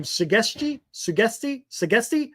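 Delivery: "Sugesti" as repeated questioning attempts; unsure pronunciation. Real, not acted. Host stumbling over a player's name, unsure pronunciation. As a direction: try "Sugesti" tentatively, each go rising like a question. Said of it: "I can never say his name".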